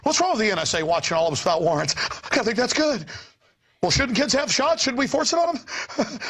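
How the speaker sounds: mocking sheep voice. Mocking compliant citizens.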